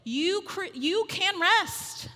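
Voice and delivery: slow, calm I've-got-this; unhurried comforting promise; reassuring God. Pretend. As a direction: settle the listener like a patient father. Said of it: "He's like".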